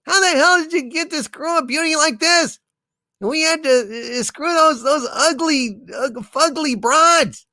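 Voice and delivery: mock rage at an unfair friend; furious yell. A narrator's reading.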